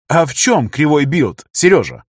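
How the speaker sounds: с хищной улыбкой. Acted. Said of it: "с хищной улыбкой".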